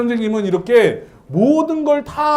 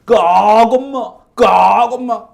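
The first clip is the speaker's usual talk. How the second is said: louder crow caws calling mom; mother crow caw; 6 dB louder, slower than usual. Retold or imitated. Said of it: "엄마 까마귀 흉내를 내는 거야". (엄마 까마귀 소리 흉내)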